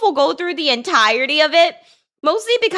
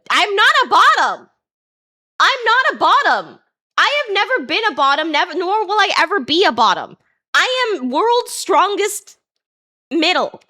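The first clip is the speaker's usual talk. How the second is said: tag; 5 semitones higher than usual. Pretend. Mock denial of a teasing username.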